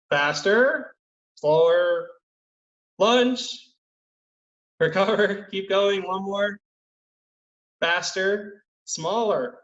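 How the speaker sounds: calling out. Real, not acted. Coach calling drill commands.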